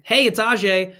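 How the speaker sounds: familiar greeting. Shown as a demonstration. Caller changing "this is" to "it's", familiar. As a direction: greet them like you already know each other. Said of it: "makes it sound like we do".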